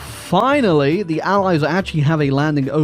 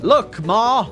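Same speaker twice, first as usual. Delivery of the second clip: hammed-up, higher kid's boast; mock proud child; 6 semitones higher, much slower than usual. Player jokes to Ma about helping in Tunisia, mock proud child. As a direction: call out to Ma, higher and drawn out at the end. Playing child calling to mother.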